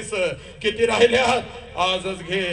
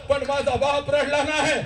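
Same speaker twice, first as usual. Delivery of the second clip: rising preacher's cry; 5 semitones higher than usual. Acted. Preacher's climax on the father.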